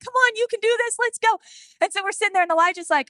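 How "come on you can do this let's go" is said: higher, brisk rallying call; pushy encouragement. Retold or imitated. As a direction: hurry the tired kid along. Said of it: "And so I'm like".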